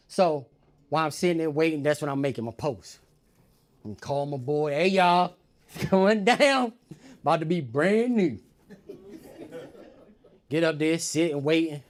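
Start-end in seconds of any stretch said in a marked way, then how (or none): 4.7-8.4 louder laughing hype; excited brag to a friend; hyped call. Retold or imitated. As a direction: laugh through the big news. Calling his boy excitedly.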